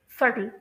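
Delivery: सटल with a clear t; British pronunciation. Shown as a demonstration. Teacher repeating for learners, British pronunciation of सटल. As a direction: say "सटल" with the British t, not flapped. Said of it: "British pronunciation में इस word को".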